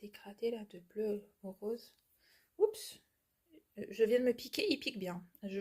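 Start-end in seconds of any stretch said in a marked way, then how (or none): 0.0-1.9 whisper. Real, not acted. Quiet aside while unpacking. 2.6-3.0 surprised oops. Real, not acted. Pricked herself on the scissors.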